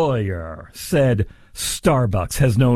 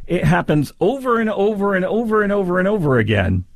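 over and over piled up, higher and mocking; mocking repetition; 4 semitones higher than usual. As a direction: stretch the over and over to mock the lawyer. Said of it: "I hear that and I think, huh".

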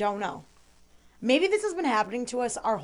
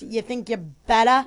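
Boston accent. Shown as a demonstration. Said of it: "You put the A's as R's".

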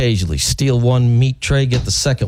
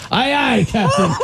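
Australian attempt that comes out piratey; attempted Australian accent; 7 semitones higher than usual. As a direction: try an Aussie accent, landing near pirate. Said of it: "I got pirate out of that".

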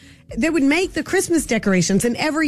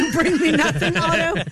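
laughing, higher-pitched mock indignation; mock outrage; 4 semitones higher than usual. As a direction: scold him playfully through laughter. Playful mock outrage at her husband.

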